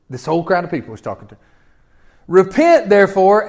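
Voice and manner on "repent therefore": Repent, therefore both said louder and firm; Repent, therefore as a preacher's call; forceful call. Shown as a demonstration. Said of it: "repeats verse with force".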